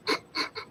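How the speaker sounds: hushed, voiceless snicker; quiet mock snickering; imitated friend's laughing. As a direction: mimic a friend's stifled laughter. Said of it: "she's laughing at me".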